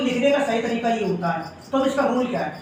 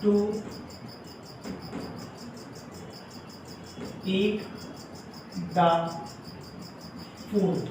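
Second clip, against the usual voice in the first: slow word-by-word dictation; 2 semitones lower, 8 dB quieter, much slower than usual. Shown as a demonstration. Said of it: "ठीक है, they are to eat the food".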